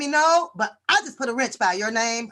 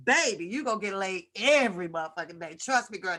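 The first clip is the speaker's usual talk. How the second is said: usual speaking voice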